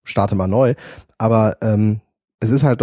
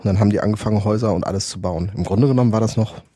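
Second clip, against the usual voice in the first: overdriven crackling mic; mic clipping and crackling; clipping distorted mic. Real, not acted. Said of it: "ich bin übersteuert".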